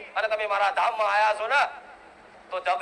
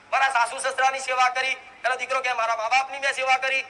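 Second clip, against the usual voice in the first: usual speaking voice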